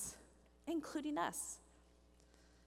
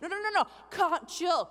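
loud, urgent no no no; teen shouting at panicking parents; calming shout; 4 semitones higher, 6 dB louder than usual. Retold or imitated. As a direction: shout them down to calm them. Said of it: "She's like".

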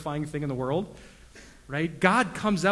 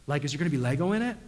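put-on kid voice; 4 dB louder, much faster than usual. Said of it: "But they're like".

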